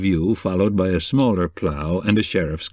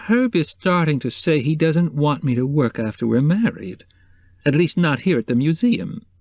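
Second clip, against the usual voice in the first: troubled Mrs Cobb; 6 semitones higher than usual. A narrator's reading.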